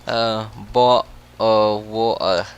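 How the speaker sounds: slow, careful British "bottle of water"; drawn-out British take on "bottle of water"; British accent. Shown as a demonstration. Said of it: "a very British thing to say".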